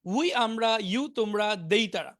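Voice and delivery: quick memorizing run. Shown as a demonstration. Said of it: "মুখস্থ করে ফেলতে পারেন এভাবে".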